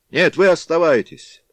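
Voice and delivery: loud, high shout; loud crowd cry. A narrator's reading. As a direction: call out over the crowd. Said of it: "закричали из толпы".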